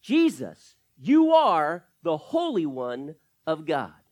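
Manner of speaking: slow, loud mock cry; demon's yell. Demon crying out to Jesus, a mild mock yell. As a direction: call out the name with a held, loud cry. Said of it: "and he yells".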